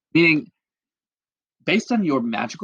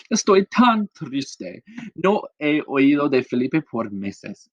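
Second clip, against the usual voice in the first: slow, higher, drawn-out sadness; mock sad sigh; 3 semitones higher, slower than usual. Paula pining for Felipe, slow mock-sad musing. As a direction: stretch it out like a lonely sigh. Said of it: "Paula who's just thinking".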